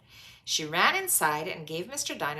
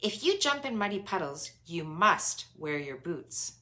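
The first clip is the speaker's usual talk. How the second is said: imitating Mummy Pig. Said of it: "just like Mummy Pig".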